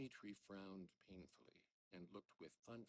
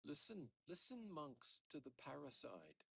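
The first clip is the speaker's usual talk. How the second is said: high, loud appeal; crying out; 7 semitones higher, 4 dB louder than usual. Acted. Father crying out to the monks against his son. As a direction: shout it to the monks. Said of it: "cried Fyodor Pavlovich".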